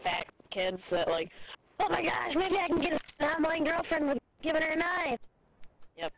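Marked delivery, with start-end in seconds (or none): 1.8-5.2 higher, mock-eager gushing kid voice; mocking fat kid. Mocking knife-buying gamer kids to friend, higher mock gush. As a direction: sneer at gamers who buy knives for girls. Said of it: "there's a bunch of, like, fat kids".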